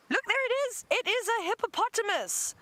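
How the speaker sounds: high, thrilled squeal of discovery; suddenly spotting the hippo, delighted; excited. Real, not acted. Spots the shy hippo, thrilled.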